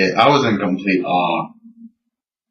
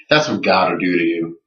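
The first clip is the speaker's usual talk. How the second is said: understated, ironic repeat; dry echo; 3 semitones lower than usual. Retold or imitated. Teller echoing the creationist after the ticket story, dry echo. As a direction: echo his line without the fervor. Speaker dryly echoes creationist's line.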